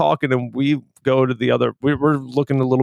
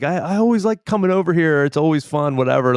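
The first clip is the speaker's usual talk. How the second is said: condescending visitor; 3 semitones higher than usual. Retold or imitated. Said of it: "kinda talking down to him".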